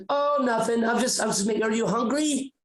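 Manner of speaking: lightly voiced sweet mother; sweet mom. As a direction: imitate a doting mom offering food. Mom's sweet answer while cooking.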